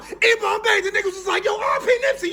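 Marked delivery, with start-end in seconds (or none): 0.0-0.8 loud, high battle cry; yelling out. Retold or imitated. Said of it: "T'Challa start yelling out". 1.4-2.3 loud, high hyped-up cheer; mock crowd cheer. Crowd cheering in retold scene.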